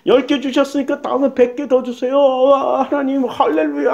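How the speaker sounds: imitated revival-meeting crying out; mock fervent prayer. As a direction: mimic an eager bargaining worshipper, half in earnest. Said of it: "기도원 가서 부르짖고". (부르짖는 기도 흉내)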